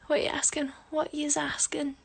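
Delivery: hushed puzzled read; whisper. Real, not acted. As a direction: whisper the question to yourself. Whispered reading of comment.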